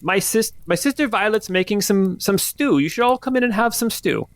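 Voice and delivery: put-on high, eager old woman; old lady pushing her stew. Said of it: "you only have one old lady voice".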